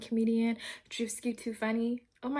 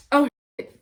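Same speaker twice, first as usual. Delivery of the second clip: surprised; 5 semitones higher, 9 dB louder than usual. Retold or imitated. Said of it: "and you're like".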